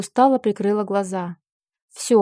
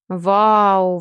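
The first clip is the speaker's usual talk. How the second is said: admiring wow; 2 semitones lower than usual. Acted. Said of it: "восхищённо выдохнул Фил".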